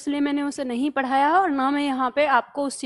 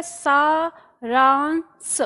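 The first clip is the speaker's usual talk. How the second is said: drawn out slowly for dictation; slow teacher dictation; slow spelling-out; much slower than usual. Shown as a demonstration. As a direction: say it slowly so they can write it. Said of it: "जैसा यहाँ दिया है".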